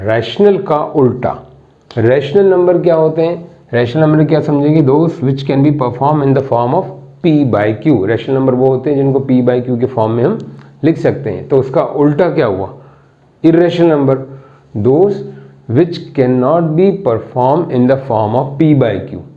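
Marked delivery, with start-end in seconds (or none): 4.8-8.0 reads the definition out word by word, very slow; slow dictating teacher; slow dictation. Shown as a demonstration. 14.9-19.2 reads the definition out word by word, very slow; slow dictating teacher; slow dictation. Shown as a demonstration.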